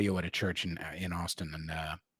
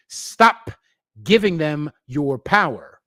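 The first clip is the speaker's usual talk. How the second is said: shouting stop; 3 semitones higher, 6 dB louder, slower than usual. Real, not acted. Ranting at enemies on stream.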